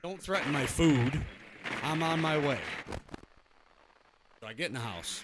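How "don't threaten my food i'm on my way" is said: mock heated. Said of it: "I got a little heated".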